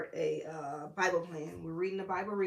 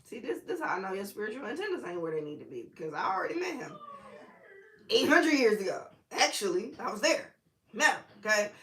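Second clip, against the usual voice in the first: fast, then loud and high, mock scolding; playful retort, gaining volume; sassy Jesus voice; 3 semitones higher, 3 dB louder, faster than usual. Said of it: "he's like".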